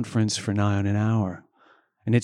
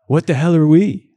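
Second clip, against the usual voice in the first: incredulous; 7 semitones higher, 8 dB louder than usual. A narrator's reading. Punchline question among soldiers.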